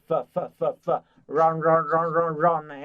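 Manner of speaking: "phở" repeated as the f sound of "from"; breaking down from. Shown as a demonstration. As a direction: drill "phở" as the opening f. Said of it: "cứ nhẩm cái trong miệng". (tách âm "phở" làm phần đầu của "from")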